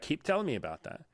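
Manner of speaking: lightly voiced sales coach, high and soft; coaxing fake sympathy. Salesman nudges tearful client to keep talking, mock soft sympathy.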